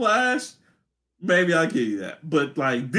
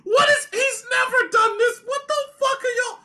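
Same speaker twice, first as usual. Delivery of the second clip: outraged shouting. Retold or imitated. Fan yelling at the movie's bad Flash scene, high shouting. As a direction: scream at the screen in shock. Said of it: "'Cause I was like".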